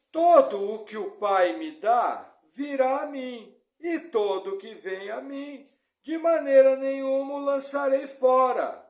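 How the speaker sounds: slow, loud, solemn Bible reading; scripture reading. Acted. Pastor reads John six to the congregation, slow and loud. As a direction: proclaim each phrase slowly.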